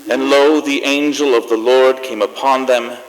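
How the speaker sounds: solemn, measured reading of the nativity passage; scripture reading. Acted. Host reads scripture to close the show, solemn and measured. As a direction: read it like a Christmas Eve lesson. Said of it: "I have something here I'd like to read".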